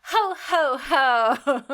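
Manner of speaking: booming Santa laugh, high and loud; jolly ho ho ho. Acted. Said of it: "love to do the intros at Christmas time".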